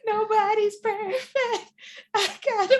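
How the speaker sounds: high, very slow strained voice; high slow fake-accented struggle; mock struggling actress. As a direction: squeeze the words out like a bad actor. Parodying actress's flubbed delivery.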